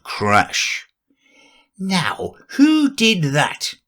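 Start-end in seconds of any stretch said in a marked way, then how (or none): 1.8-3.7 high demanding voice. Acted. Rabbit demanding after crash.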